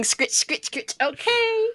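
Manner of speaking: unvoiced scritch sound effect; whispered scratching noise. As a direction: breathe the scritches out. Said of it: "I walked away going".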